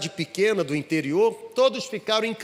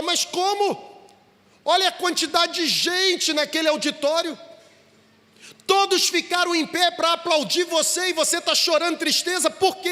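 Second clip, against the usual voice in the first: much higher, astonished and pleading; a father who can't believe his ears; why on earth would you cry, with rising disbelief; incredulous father; 9 semitones higher than usual. A narrator's reading. Father baffled by son's tears.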